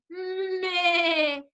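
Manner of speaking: bleating meh like a sheep; a crying sheep's meh. Shown as a demonstration. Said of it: "Or a sheep?".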